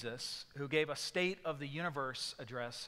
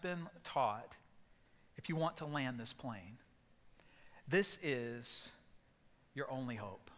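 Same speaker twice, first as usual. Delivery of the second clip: grave and deliberate instruction; serious tone. Retold or imitated. Controller gravely warning the stranded passenger, serious tone. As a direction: lay out every word like life depends on it. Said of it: "changed his calm voice to a very serious tone".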